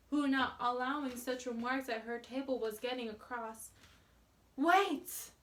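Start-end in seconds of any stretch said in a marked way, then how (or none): 4.6-5.3 simple command. A narrator's reading. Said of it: "said our little simple companion simply".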